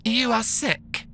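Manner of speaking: measured posh robot nurse. Acted. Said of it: "the robot repeated".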